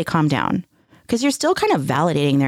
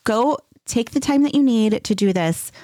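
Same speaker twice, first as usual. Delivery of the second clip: higher-pitched, lightly acted reassurance; reassuring parent; 5 semitones higher than usual. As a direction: gently give an upset child permission, as if imitating yourself. Voicing soothing parent to child.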